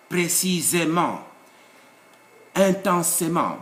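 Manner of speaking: "Précisément" and "Intensément" with a full ay before -ment; accented e pronounced. Shown as a demonstration. Teacher modelling accented adverbs, é pronounced. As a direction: sound the é clearly in "Précisément" and "Intensément". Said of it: "pronounce it like it is here".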